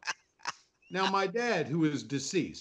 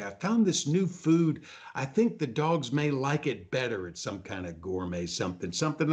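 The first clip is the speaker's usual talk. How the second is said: imitating wife; 2 semitones lower than usual. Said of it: "she'll say".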